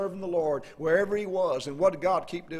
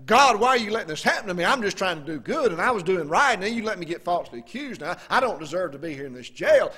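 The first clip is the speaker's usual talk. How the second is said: complaining prisoner; 6 dB louder than usual. Retold or imitated. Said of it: "to complain and say".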